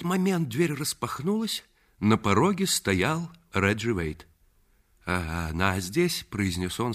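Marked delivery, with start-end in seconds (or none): 5.1-6.3 slow, catching the breath; mildly winded, getting words out with effort. Acted. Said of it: "с трудом переводя дыхание". (слегка запыхавшись)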